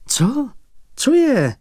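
high startled outburst; blurted out. Acted. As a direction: jolt it out in sudden alarm. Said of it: "vyhrkl pan Michl".

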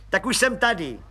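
high, eager voice of a fawning little clerk; fawning little policeman. Acted. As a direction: squeak up importantly like a nosy petty cop.

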